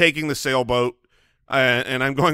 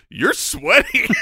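high-pitched incredulous wife impression; mock-astonished, voice shooting way up; imitating wife; slower than usual. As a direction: squeal it as a baffled wife. Quoting his wife's surprised remark.

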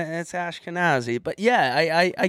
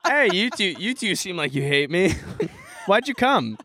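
weird stage voice; 2 semitones higher than usual. Pretend. Comic trying crowd work on two audience members, weird stage voice. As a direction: slip into an odd performer voice. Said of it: "you put this weird voice on".

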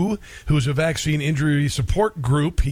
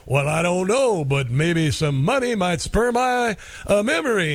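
lightly voiced sly informant, slow; a hint of Huggy playing dumb for cash; coy Huggy Bear; 4 semitones higher than usual. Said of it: "And Huggy'd go".

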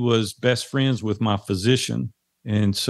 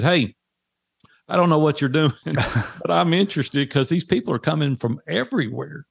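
excited laughing; 5 semitones higher than usual. Retold or imitated. Calling the host about the rush.

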